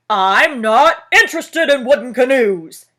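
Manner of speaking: loud booming bear. Acted. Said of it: "Bear's voice was even louder".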